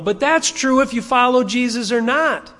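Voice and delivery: ordinary talk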